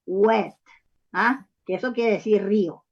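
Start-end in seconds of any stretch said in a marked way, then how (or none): 0.1-0.6 wet said slowly with a vowel between A and E; spelled-out pronunciation. Shown as a demonstration. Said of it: "entre A y E, y W". (wet pronunciado despacio, vocal entre A y E)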